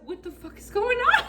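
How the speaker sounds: high, laughing what-the; cracking up mid question; laughing disbelief. Retold or imitated. Teller laughing in disbelief as her friend runs from the cop.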